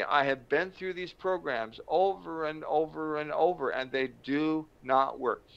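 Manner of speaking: mild, emphatic frustration; retold anger. Angry addict fed up with failed programs, mildly heated. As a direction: protest it, dragging out the last words. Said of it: "I am really angry".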